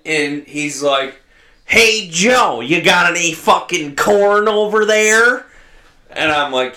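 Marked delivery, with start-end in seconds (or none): 1.6-5.5 higher-pitched holler down the line; imitated phone holler. Farmer phoning a young guy for corn, hollered. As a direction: call out as a gruff old farmer would.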